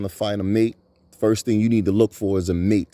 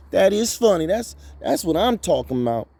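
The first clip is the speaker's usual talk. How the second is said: still laughing; 10 semitones higher than usual. Real, not acted.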